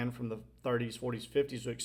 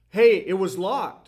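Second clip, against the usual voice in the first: put-on very loud, high-pitched child's shout; 7 semitones higher, 12 dB louder than usual. Retelling watching a horror film as a child: retelling own childhood yell. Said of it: "I'm yelling as a six or seven-year-old".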